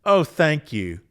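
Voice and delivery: imitating a disbelieving laughed-off thanks; mock guttural chuckle on a thank-you; retold guttural laugh. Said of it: "I kinda gave a guttural laugh".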